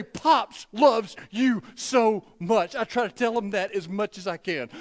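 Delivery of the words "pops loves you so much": tag. Retold or imitated. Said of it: "and I say".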